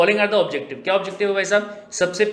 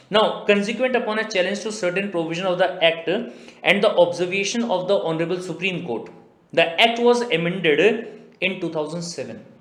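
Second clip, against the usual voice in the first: slow, measured reading of the act text; deliberate legal dictation; much slower than usual. Acted. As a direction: read it out word by word like a statute.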